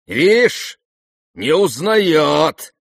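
loud high sneer, slow at the end; spiteful sneer. Acted. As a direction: grin at him maliciously. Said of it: "злобно осклабился Рогожин".

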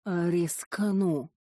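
slow creature hiss; slow hissing demon voice; whispered hiss. Acted. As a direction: hiss it out slowly. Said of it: "прошептала-прошипела".

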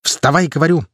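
a hint of a rough male voice breaking through; coarse mannish voice. A narrator's reading. Girl's voice turning into a man's as she orders him up. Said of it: "Её голос сделался грубым".

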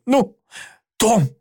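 high, eager push to go on; aunt eagerly prodding her nephew; eager urging. Acted. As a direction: hurry him along. Aunt urges Tom on.

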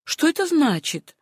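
startled question, pitched high; a touch of alarm in a high voice; frightened exclamation. A narrator's reading. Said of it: "испуганно воскликнула". (испуганный возглас)

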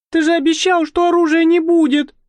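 no longer hushed. Acted. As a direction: cry out, not caring who hears. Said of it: "Игла уже не боялась быть услышанной".

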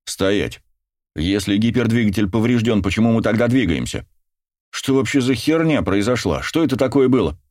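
alarmed shout. Acted. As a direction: demand answers in alarm. Captain alarmed by anomaly.

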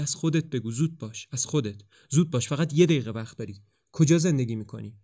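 urgent, hurried questions, picking up speed; pressing her to talk before time runs out; agitated. Acted. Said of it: "جولیان ملتهب میگه".

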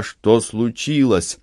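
ordinary delivery, nothing marked

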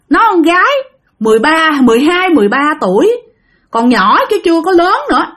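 acted worry pushed into reproach; agitated reproach. Grandfather reproaches wife for leaving young girl, agitated. Grandfather's ghost indignant about girl left alone.

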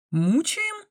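high, incredulous echo of the word; astonished. A narrator's reading. Olya, stunned by the girl's accusation, asks back in high disbelief. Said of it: "глаза на лоб полезли".

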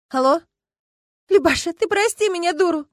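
high, tearful plea down the phone; upset friend. Acted. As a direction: beg forgiveness close to tears. Friend calls sobbing, upset.

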